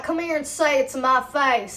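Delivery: imitated tough-guy challenge; mocked threat. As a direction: act out his dare, mockingly. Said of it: "that's a direct threat".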